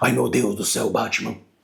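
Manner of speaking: mock growling throaty voice. Showing a guttural voice placement: bad guttural Batman voice. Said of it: "aquela imitação de Batman".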